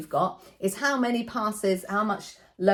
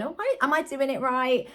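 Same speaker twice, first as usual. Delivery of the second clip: playing dumb; 6 semitones higher than usual. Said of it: "I act a little bit dumb".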